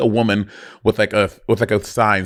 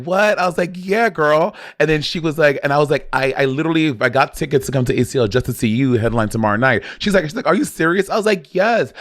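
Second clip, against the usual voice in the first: excited fan squeal; 4 semitones higher than usual. Retold or imitated. Retold gushing meeting with star.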